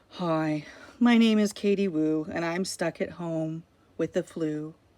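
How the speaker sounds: low, uninterested, bored tone. Speaker previews how a chapter about a girl home with flu might be read; bored voice. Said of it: "I bet that chapter will be read in a bored voice".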